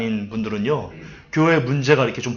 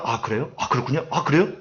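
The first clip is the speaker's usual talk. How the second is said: overeager responses; 5 dB quieter than usual. Shown as a demonstration. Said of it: "이러는 거 아니에요".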